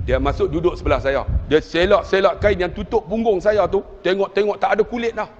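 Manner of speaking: ordinary talk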